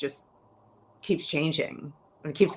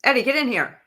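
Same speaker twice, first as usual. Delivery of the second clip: calling out; 7 semitones higher, faster than usual. Real, not acted. Calling guest back into show.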